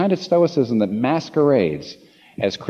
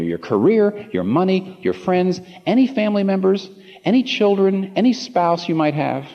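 urgent, rising appeal; 5 semitones higher than usual. Real, not acted. Urgent hypothetical to congregation.

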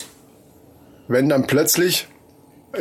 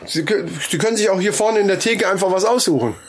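butcher voice; 2 semitones higher than usual. Pretend. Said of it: "rede wie ein Fleischverkäufer".

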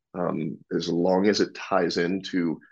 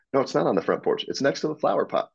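higher, indignant painter insisting; mock painter squabble; 7 semitones higher, faster than usual. Crew member insisting to his buddy, higher and indignant. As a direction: argue back like a confused crew member.

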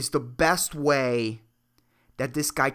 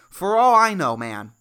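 louder, punched for all I know; loud exclamation; 7 dB louder than usual. Real, not acted. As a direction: belt the refrain out. Shouted refrain.

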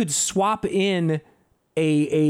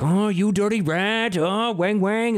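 imitating gangster dub voice; 4 semitones higher than usual. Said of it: "sounds like Casey Kasem".

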